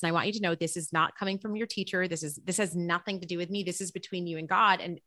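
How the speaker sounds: soft, confiding words to a student; hushed confiding. Retold or imitated. Teacher quietly tells her student it's from God, hushed.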